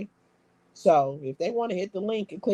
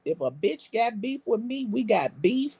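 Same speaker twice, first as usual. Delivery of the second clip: a light put-on rapper swagger, forever stretched out; a female rapper's voice. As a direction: toss it off like a hint of a female rapper. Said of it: "in my rapper voice".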